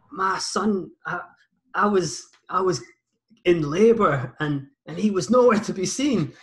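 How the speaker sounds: a put-on Scottish accent, aggrieved; Scottish woman imitation. Scottish mum complaining to Jeremy Kyle in a broad Scottish accent. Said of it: "this woman was like".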